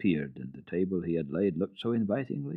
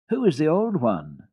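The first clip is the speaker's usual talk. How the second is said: put-on high, louder child's question; girl asking; 8 semitones higher, 6 dB louder than usual. A narrator's reading. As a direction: Heidi asks about the old goat. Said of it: "asked Heidi".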